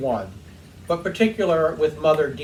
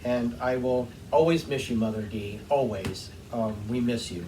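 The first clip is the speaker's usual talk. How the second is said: sad farewell; 4 semitones lower, 5 dB quieter than usual. Real, not acted. Farewell to late mother-in-law.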